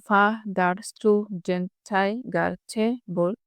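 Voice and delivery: ফা, দার, স্টু, ডেন, ঠাই, গার, ছে, বল as separate even beats; broken into syllables. Shown as a demonstration. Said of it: "এরকম ভেঙে". (ফা, দার, স্টু, ডেন, ঠাই, গার, ছে, বল আলাদা করে ভেঙে)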